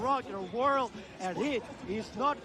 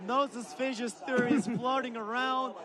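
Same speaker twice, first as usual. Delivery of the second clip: laughing. Real, not acted. Laughing while repeating a joke.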